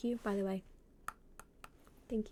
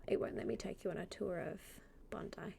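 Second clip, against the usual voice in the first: whispering; 6 dB quieter, faster than usual. Real, not acted. Whispering aside to chat.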